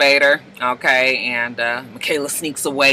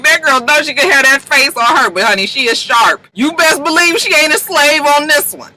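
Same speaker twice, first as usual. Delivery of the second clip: high, sassy, admiring; sassy praise; 8 semitones higher, 4 dB louder than usual. Retold or imitated. Gushing to viewers about Michaela, high and sassy. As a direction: hype her up with attitude. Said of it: "I was just like".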